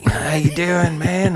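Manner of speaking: put-on light Aussie accent. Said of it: "he was from Tasmania originally".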